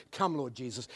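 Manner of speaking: hushed longing call; soft prayer. Acted. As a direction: breathe it like a quiet prayer. Soft prayerful refrain in sermon.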